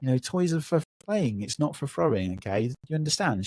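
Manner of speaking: retold gentle explaining; patient parent checking a toddler understands; nice, calm level. Dad talking to his crying toddler at timeout, calm and nice. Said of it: "in a really nice level".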